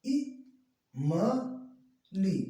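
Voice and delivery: ई, म, ली as separate short beats; spaced-out teaching demo; pulled short-i reading. Shown as a demonstration. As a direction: break the word into short syllables with pauses. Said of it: "खींच करके एक बार".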